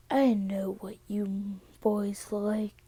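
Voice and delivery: slow, pointed insinuation; knowing suspicion. Acted. Mother looks at the boyfriend, slowly insinuating. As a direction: draw it out with heavy suspicion.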